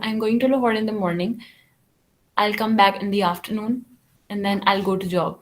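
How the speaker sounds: level, toneless answer without feeling; emotionless monotone. Shown as a demonstration. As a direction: recite it slowly in one unchanging tone. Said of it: "यानी emotionless answer था".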